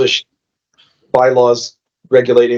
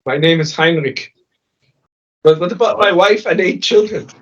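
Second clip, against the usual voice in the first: pleading refugee voice; 5 semitones higher than usual. Acted. Player voicing a pleading refugee.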